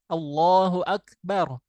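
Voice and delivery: slow recited Allahu akbar, kaf with breath; recited example. Shown as a demonstration. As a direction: recite it slowly like in prayer.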